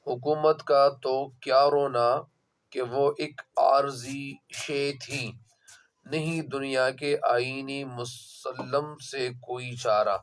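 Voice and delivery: slow, measured reading of a couplet; verse recitation. Real, not acted. Teacher reads out the ninth couplet for students, slow measured recitation. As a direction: recite the verse slowly, phrase by phrase.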